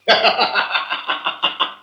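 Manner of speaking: quiet unvoiced villain laugh; villain's chuckle. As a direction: chuckle to yourself in triumph. Villain gloats alone.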